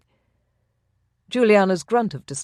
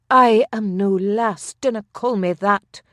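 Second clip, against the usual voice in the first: indignant retort; 4 semitones higher, 5 dB louder than usual. A narrator's reading. Juliana rejects being called lass.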